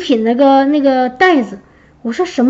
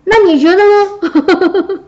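slow, amused comeback through a laugh; laughing reply; 5 semitones higher, much slower than usual. Retold or imitated. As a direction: tease back with a chuckle. Boss jokes back, everyone laughs.

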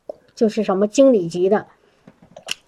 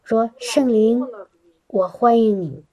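prayer demo; 3 dB quieter, slower than usual. Shown as a demonstration. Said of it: "然后我们就一起说".

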